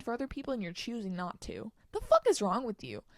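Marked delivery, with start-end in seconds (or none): 1.9-3.0 angry. Real, not acted. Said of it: "I'm getting angry".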